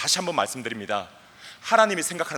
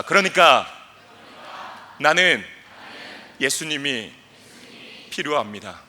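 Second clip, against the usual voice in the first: shouted confession fading; slower than usual. Acted. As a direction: start with a shout, end in a humble hush. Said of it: "다 같이 외쳐봅시다".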